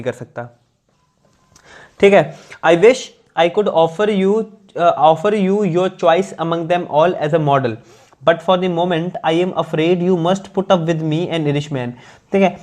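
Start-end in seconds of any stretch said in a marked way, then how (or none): 2.7-11.9 slow, measured English read-aloud; deliberate dictation-like reading; careful text reading. Acted. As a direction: read it out slowly, phrase by phrase.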